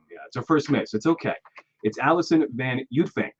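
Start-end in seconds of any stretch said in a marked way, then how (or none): 2.0-3.3 Uytvanck said as YOOT-fink; correcting pronunciation. Shown as a demonstration. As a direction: show how Allison Van Uytvanck is said, YOOT-fink at the end. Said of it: "both wrong".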